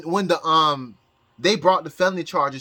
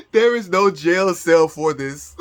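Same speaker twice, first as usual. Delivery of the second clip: slow, laugh-choked words; teary laughing; 4 dB louder, slower than usual. Real, not acted. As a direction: push it out through tears of laughter. Laughing hysterically at the scandal.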